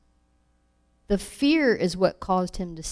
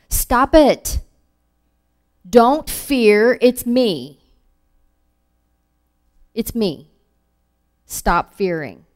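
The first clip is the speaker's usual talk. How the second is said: louder, higher, urgent: stop it, don't fear; firm loud command; 3 semitones higher, 8 dB louder, much slower than usual. Retold or imitated. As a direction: command them firmly to stop being afraid. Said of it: "It was".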